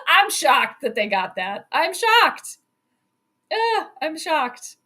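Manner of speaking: laughing, high, disbelieving I'm shocked. Real, not acted. Fan laughing in disbelief at the play. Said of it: "I am shocked".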